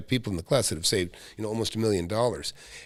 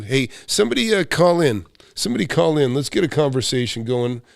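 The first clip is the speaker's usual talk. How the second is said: calling out; 2 semitones higher, 5 dB louder than usual. Real, not acted. Urging viewers to call in.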